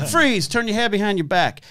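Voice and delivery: mocking how arrests look on CSI Miami; mock TV cop.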